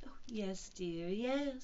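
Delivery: gentle, humouring murmur; soothing. Acted. Kanga humouring supposed Roo, soothing. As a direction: soothe as to a fussing child. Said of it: "said Kanga soothingly".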